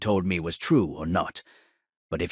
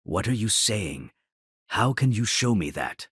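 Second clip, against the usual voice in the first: shaking voice; 5 semitones higher than usual. Retold or imitated. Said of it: "I said in a shaking voice".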